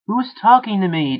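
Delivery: high, loud shout. A narrator's reading. Jake shouting at the voice in his head. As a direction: yell at the unseen voice. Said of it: "Jake shouted".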